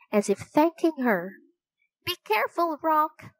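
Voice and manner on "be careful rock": shouted. A narrator's reading. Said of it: "Annie shouted".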